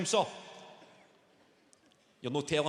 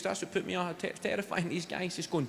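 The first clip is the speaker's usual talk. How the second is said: ordinary talk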